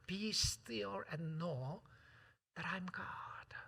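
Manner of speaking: very slow, whispered scripture; meditative whisper. Real, not acted. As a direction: let each word settle in stillness. (아주 천천히 속삭이며 묵상하듯)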